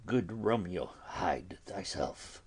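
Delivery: hushed, breathy warning whisper; urgent whisper. Acted. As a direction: whisper it so the door can't hear. Friar hides Romeo from knocking.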